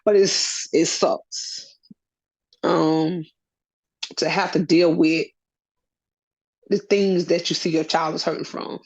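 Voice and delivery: fighting back tears while talking; getting emotional. Real, not acted. Mother talking about her hurting son, voice breaking. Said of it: "I don't know why I'm getting emotional".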